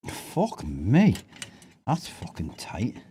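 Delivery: slow strained whisper under effort. Real, not acted. Straining on a tight bolt.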